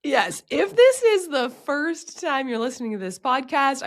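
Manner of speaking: raspy voice from a cold; hoarse sick voice. Real, not acted. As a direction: talk through a sore throat. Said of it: "my voice doesn't normally sound like this".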